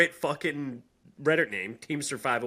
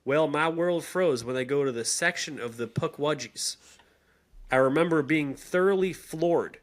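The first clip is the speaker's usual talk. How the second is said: put-on Lowell accent. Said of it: "sounds like a Lowell accent this whole time".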